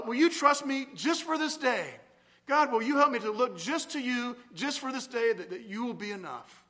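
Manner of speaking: earnest prayer; modelling a prayer of trust; spoken prayer demo. Shown as a demonstration. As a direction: ask gently for trust. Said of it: "but something like this".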